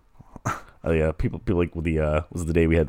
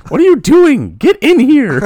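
very high, loud mock yell; shouting; 11 dB louder, slower than usual. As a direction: yell it from across the house. Mock shouting scene from shower.

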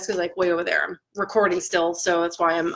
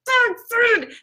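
a burst of delighted disbelief; excited exclaim; 12 semitones higher than usual. Retold or imitated. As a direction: yelp it out much higher. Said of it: "I'm like".

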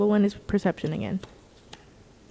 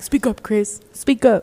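retold prodding, louder on the repeat; urging classmate; 6 dB louder, slower than usual. Friend retelling how they push Chris in class, urging. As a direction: push a shy friend to be heard. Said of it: "in class, I'm like".

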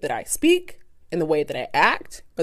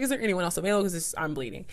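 softer, understated complaint; polite request; 10 dB quieter, faster than usual. Retold or imitated. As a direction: ask without making a scene. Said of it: "I was very polite".

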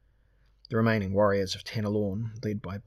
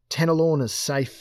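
loud, higher triumphant call; joyful shout; 6 semitones higher, 7 dB louder than usual. A narrator's reading. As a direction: shout it out in victory. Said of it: "he shouted".

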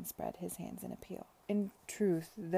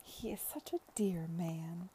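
soft, slow, whispered fondness; fond murmur; 3 dB quieter than usual. Acted. Mary speaking fondly of Arthur, soft whisper. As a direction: breathe it with quiet affection.

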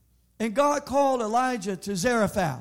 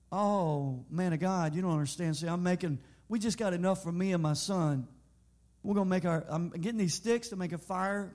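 fearful widow; 4 dB quieter than usual. Retold or imitated. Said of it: "I hear the fear in your voice".

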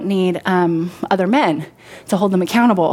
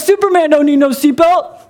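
higher, louder, a bit hammed-up champ voice for "Superman don't need no seatbelt"; Muhammad Ali impression; 6 semitones higher, 4 dB louder than usual. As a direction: ham up the cocky boxer, pitched up. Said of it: "Is that how he talked?".

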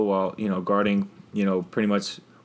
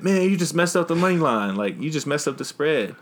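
imitating fan; 6 semitones higher than usual. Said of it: "Some dude said".

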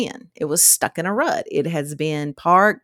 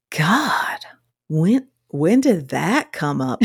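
whispered aside; slower than usual. Retold or imitated. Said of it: "I was like".

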